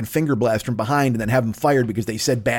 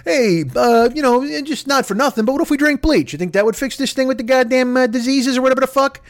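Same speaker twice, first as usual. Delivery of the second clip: Trump impression; 10 semitones higher than usual. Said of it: "Yesterday, he's like".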